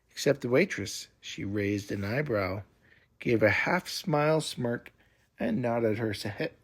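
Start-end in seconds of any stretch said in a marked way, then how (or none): none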